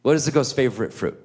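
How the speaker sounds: lightly voiced small child; little Jameson. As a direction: imitate a kid finally getting the riddle out. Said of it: "So poor little Jameson".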